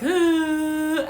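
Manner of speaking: high, drawn-out dazed "ooh". Retold or imitated. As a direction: imitate a spaced-out daze. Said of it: "out of it".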